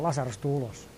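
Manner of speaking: quiet call that should be a shout; not shouting. Shown as a demonstration. Preacher shows the call left unshouted, softly. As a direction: call Lasarus softly, no force. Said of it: "ei ruveta huutamaan".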